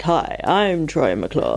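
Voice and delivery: very slow mock presenter voice; Troy McClure. Teasing the co-host's one voiceover, slow mock announcer. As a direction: parody a drawn-out voiceover intro. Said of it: "Every time you do that, I'm like".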